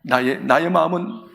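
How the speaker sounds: gentle fatherly embrace. Acted. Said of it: "큰 소리 않고 이렇게 안아주시오".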